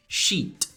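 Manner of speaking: "Sheet" with a long drawn ee; "Sheet", clear long i vowel. Shown as a demonstration. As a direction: say "Sheet" as if it had several i's. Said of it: "o som dela é como se fosse vários Is".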